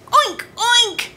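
high, loud piggy oinks. Acted. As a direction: oink like a squealing pig. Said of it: "and the pig said".

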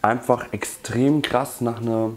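tin held over mouth; sniffing tin while talking; speaking into a tin. Real, not acted. Seen 0: From 2.9 s he holds the open tin over his nose and mouth.

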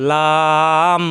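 "লাম" light and unthickened, held long; natural lam. Shown as a demonstration. Teacher modelling the letter, "লাম" natural and drawn out. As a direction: stretch "লাম" evenly with a plain l. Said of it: "স্বাভাবিক উচ্চারণ".

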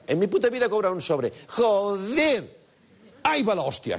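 high, fast Basque bluster with "Joder" hammered; Basque tough guy. Shown as a demonstration. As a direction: rattle it off like a blunt Basque. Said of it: "Este es un vasco ya". (vasco bruto, rápido y alto)

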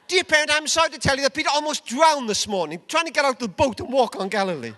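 mock school report. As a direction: rattle off a mock letter to a parent. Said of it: "there were school reports around".

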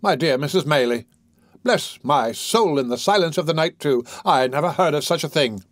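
put-on fussing, flustered old doctor; lightly voiced fussy bachelor doctor. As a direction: bluster with sympathy, drawing out bless my soul.

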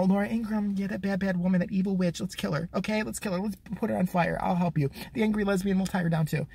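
put-on soft, coaxing baby-talk interviewer; mock cooing host. CNN host coaxing the kid against Ingraham, soft and sweet. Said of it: "she says something like".

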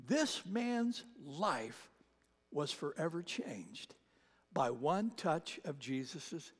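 slow, soft, intimate appeal; soft altar call. Acted. Preacher inviting listeners to open their hearts, soft and slow. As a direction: draw them in gently, slowly.

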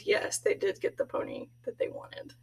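hushed spoiler whisper; whispered aside. Real, not acted. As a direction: let them in on the secret softly. Secret spoiler PS.

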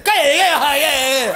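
loud, high repeated shut up; shouted shush. Shown as a demonstration. Comic telling the audience how to shush a mother. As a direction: bark it at her, high and loud. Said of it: "Así tenéis que ser".

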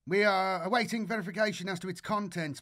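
high, eager radio report; excited young voice over the radio. Acted. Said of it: "Grishin's excited tone".

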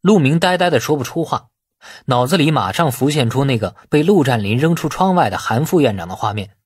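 plain reading voice

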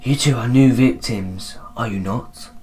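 soft, lightly voiced ghost; ghostly voice. Ghost telling two new victims, lightly ghostly. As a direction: let it fade softly like a spirit. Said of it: "I'm gonna do, like, a ghostly voice".

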